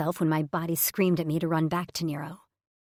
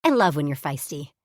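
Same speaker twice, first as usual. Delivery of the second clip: squealy delight; 6 dB louder than usual. Acted. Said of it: "with a little squeal".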